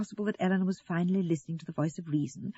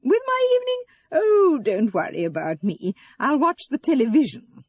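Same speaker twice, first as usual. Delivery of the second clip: martyred mother; 8 semitones higher, 8 dB louder than usual. A narrator's reading. Eleanor reassuring her daughter, martyred. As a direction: wave away concern with theatrical self-sacrifice.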